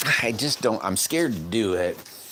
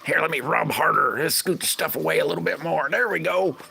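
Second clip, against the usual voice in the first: much higher, put-on voice; mock shrugging self; 10 semitones higher than usual. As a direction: play yourself brushing off a wobbly build. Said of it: "Just set it there and say".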